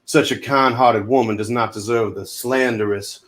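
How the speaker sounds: put-on Southern accent, earnest and folksy; Cameron Poe. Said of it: "Great accents, both of you".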